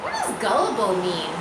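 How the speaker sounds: puzzled little-pig question; curious pig voice. A narrator's reading. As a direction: ask it wide-eyed and innocent. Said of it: "Wilbur asked".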